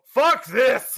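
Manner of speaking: high, fed-up outburst; acted exasperated shout. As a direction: yell it in mock exasperation. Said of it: "And you just go".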